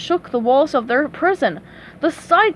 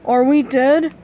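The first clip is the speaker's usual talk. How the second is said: dopey worried starfish; Patrick voice; 5 dB louder than usual. A narrator's reading. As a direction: ask it slow and dim. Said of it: "asked Patrick".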